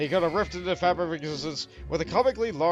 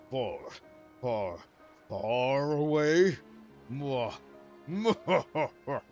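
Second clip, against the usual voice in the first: slow hammed-up villain echo; half-hearted villain cackle; lightly mocked villain; much slower than usual. Echoing villain lines.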